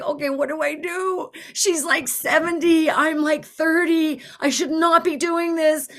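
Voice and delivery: high-pitched, flustered self-talk; mild panic. Retold or imitated. Driver realizing she has gone too far, flustered. Retold panicked thoughts while driving.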